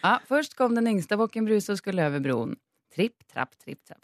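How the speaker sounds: storytelling voice reading a fairy tale; troll folktale telling. Acted. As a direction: read it like a bedtime folktale. Reads folktale aloud in Swedish/Norwegian.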